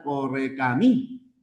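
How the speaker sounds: "correcamí" slowly, landing on a stressed final MÍ. Shown as a demonstration. Teacher marking the tonic syllable for students, stressed MÍ in "correcamí". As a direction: draw out "correcamí" towards its stressed "mí". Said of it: "Aquí estaría la fuerza de voz".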